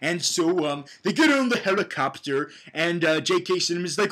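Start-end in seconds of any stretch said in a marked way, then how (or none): none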